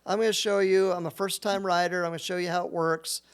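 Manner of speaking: lightly voiced teen vlogger; mock influencer girl. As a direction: imitate the girl showing off her board. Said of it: "she goes".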